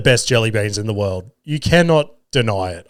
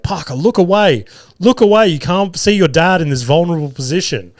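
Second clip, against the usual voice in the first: higher-pitched pretend warning; mock alarm; 4 semitones higher than usual. Dad telling his son to look away, mock alarm. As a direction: call out in pretend panic, easing toward the end.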